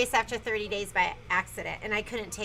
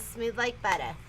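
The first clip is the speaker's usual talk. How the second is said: butter with a dropped r, Boston style; Boston accent; 3 semitones lower, 4 dB quieter than usual. Pretend. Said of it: "How come you have a Boston accent when you say that?".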